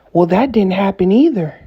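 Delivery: imitated argumentative comeback; mocking retort. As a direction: throw it back as a mocking imitation of a liar. Acting out the narcissist's retort.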